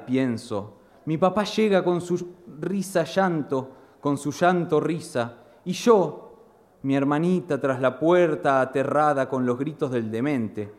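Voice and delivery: expressive spoken-word delivery; dramatic poem recital. Acted. Poet performing his poem about his blind grandfather, dramatic recital. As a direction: perform the verse, voicing the family scene.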